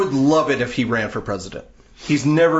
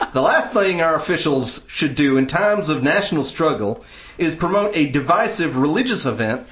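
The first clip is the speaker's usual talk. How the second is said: higher-pitched put-on Southern accent; 4 semitones higher than usual. Shown as a demonstration. Host reads atheist leader's statement in a mock Southern accent. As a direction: read it out with a swooping Southern accent. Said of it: "statement in a Southern accent".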